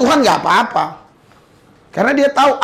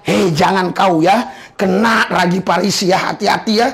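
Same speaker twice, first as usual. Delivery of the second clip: gentle warning; 5 semitones lower than usual. Retold or imitated. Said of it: "Makanya sering Yesus mengingatkan".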